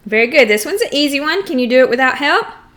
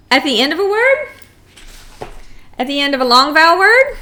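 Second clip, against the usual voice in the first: quick quiz prompt; 3 semitones higher, much faster than usual. Shown as a demonstration. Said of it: "Very good".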